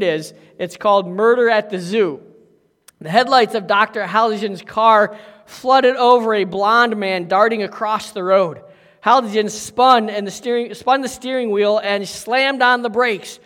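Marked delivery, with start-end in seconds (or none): 3.0-13.4 story reading. A narrator's reading. Pastor reads a mystery story to the congregation, livelier than his sermon voice. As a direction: read the mystery to the congregation with some drama.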